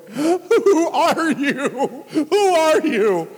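slow, high, laughing wonder; marvel, laughing at God's doing; laughing in awe. Retold or imitated. In the makeshift radio station, laughing in awe.

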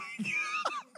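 high shrieking laugh, breaking up; burst of laughter. Real, not acted. Preacher cracking up over nursing mothers, shrieking laugh. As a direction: laugh helplessly at the memory.

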